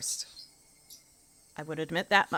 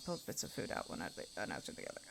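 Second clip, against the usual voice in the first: a fast, breathy mutter; whispered reread; 9 semitones lower, 13 dB quieter, faster than usual. A narrator's reading. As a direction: whisper it to yourself quickly. Reread under her breath.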